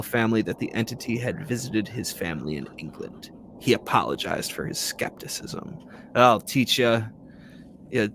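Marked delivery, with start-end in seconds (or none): 6.2-8.1 taunting ghost. Pretend.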